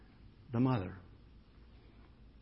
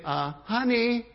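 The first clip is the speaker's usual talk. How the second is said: high, slow, sugary mock-pleading; high, slow, over-sweet plea; timid pleading parent; 8 semitones higher, 7 dB louder, slower than usual. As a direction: mimic a parent who asks too nicely. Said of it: "That mother didn't say".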